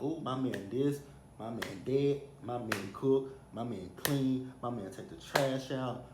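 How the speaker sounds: rhythmic bragging list, each item punched; playful hype, slowing toward the end; hyping her man. Retold or imitated. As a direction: imitate a friend boasting about her man. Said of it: "let my friend hype her man up".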